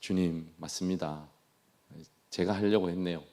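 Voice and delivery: 낮고 작게 잘못을 인정하는 시늉; 한 대 맞고 꼬꾸라진 듯 조용히. Retold or imitated. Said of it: "꼬꾸라져서". (기죽은 목소리로 나직이 고백)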